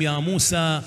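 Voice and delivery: slow, drawn-out sacred recitation; solemn divine address. Acted. Preacher quoting God's warning to Moses, solemn and slow. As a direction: stretch each word in a measured, chant-like quote.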